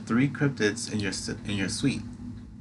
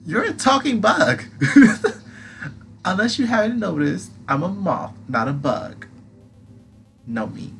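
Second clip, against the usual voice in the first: high squeaky moth creature; pixie; 9 semitones higher, 5 dB louder than usual. Acted. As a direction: tease in a tiny squeaky voice. Atlas banter.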